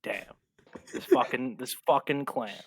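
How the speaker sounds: muttered grim curse; dead serious. Acted. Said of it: "real serious".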